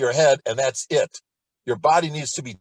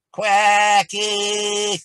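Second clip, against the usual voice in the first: obnoxious piercing quack; 6 semitones higher, 6 dB louder than usual. Shown as a demonstration. Teacher demonstrating the obnoxious quack drill, piercing and loud. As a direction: Quack ah much higher and louder, piercing. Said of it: "it sounds obnoxious".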